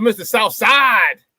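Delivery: slow, stretched hype call; drawn-out shout-out to a viewer. Real, not acted. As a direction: call him out like a ring announcer. Hyping a viewer's arrival.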